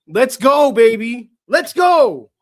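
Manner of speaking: very high, loud victory cheer; real full-voice cheer; ecstatic yell. Real, not acted. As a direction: scream it like the team just won. Fan celebrating draft lottery win.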